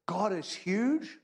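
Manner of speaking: God is huge drawn out, high and very slow; big slow emphasis. Acted. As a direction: stretch every word of God is huge to show its size. Preacher stresses God's greatness.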